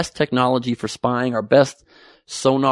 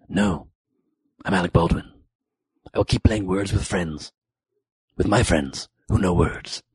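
lightly lowered, smug celebrity voice; a hint of a smug Alec Baldwin; 5 semitones lower than usual. Comic mimics Baldwin refusing the stewardess, smug and lower. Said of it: "He's like".

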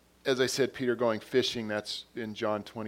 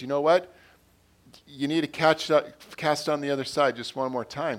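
retold yell; 3 semitones higher, 6 dB louder than usual. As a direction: imitate someone calling out from the shore. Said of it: "yells at him and says".

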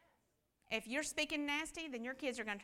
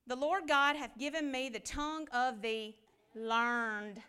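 slow, deliberate scripture read; slower than usual. Acted. Preacher reading Isaiah to the church, slow and measured. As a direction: lay each word out slowly from the Bible.

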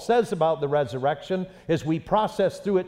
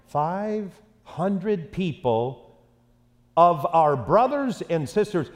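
slow emphasis; slower than usual. Acted. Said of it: "preacher reads slowly for emphasis".

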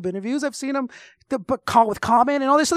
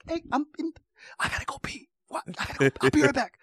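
hushed, much softer whisper in a dark cinema; mock theater whisper; 10 dB quieter, faster than usual. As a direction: whisper so the row behind won't hear.

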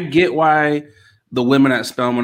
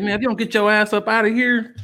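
mock dismissal; 7 semitones higher than usual. Mock retort to white students.

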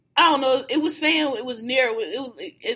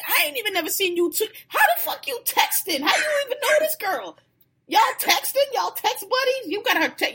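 much higher, fast, laughing rant; incredulous disbelief; 5 semitones higher than usual. Retold or imitated. To Chelsea about secretly texting the girl, incredulous and laughing. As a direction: pile up the questions in disbelief.

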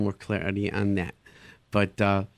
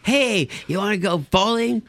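higher and louder, a hammed-up trendy dad; mock cool parent; 9 semitones higher, 4 dB louder than usual. Parent posing as a teen to win the kid over, mock cool. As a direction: parody a parent trying too hard to be cool. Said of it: "and say".

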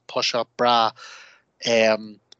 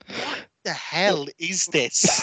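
slow, mock disbelief; appalled girlfriend; 3 semitones higher, much slower than usual. Girlfriend looking at him over the show, slowly appalled. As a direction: imitate someone aghast, drawing out each word. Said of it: "Hannah'd be looking at me going".

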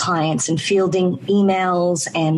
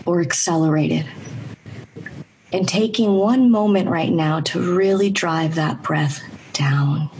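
measured meditation guide, long pauses between phrases; guided meditation. Acted. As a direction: guide listeners into breath and body, unhurried pauses.

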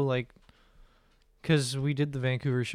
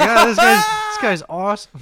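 laughing; 10 semitones higher, 13 dB louder than usual. Retold or imitated. Laughing delight at old man.

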